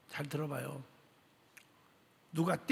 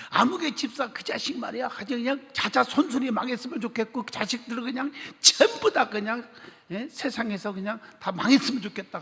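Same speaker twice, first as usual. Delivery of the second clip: raised, louder venting curse; angry cursing; 5 semitones higher, 4 dB louder than usual. Retold or imitated. Pastor venting rage about the deacon, furious curse. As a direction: spit out the curse in fury.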